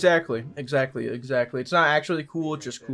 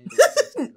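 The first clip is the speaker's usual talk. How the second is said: short high laugh; 4 dB louder than usual. Real, not acted. Laugh at joke.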